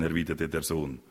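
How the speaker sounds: ordinary delivery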